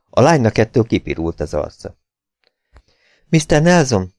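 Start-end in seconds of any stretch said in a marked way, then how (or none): 3.3-4.1 magasabb hangú, sürgető megszólítás; szólítsd meg sietősen, magas hangon; gyors kérdés. A narrator's reading. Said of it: "kérdezte gyorsan". (sietős, magas hangú kérdés)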